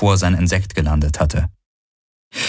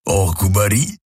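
grumbled. A narrator's reading. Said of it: "brummte der Vierarm".

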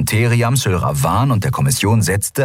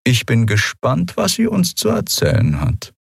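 higher, cool, relishing threat; cold officer; 7 semitones higher than usual. A narrator's reading. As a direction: savour the thought. Monaro continues coldly.

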